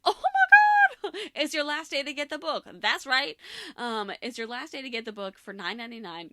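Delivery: hyped-up sales pitch; infomercial voice. Real, not acted. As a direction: sell it like a TV ad. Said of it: "Do I sound like an infomercial?".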